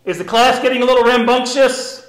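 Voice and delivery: lightly played classroom teacher; a hint of mock teacherly checking. Teacher asking about the pretend class, teacher voice. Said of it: "I do like your teacher voice".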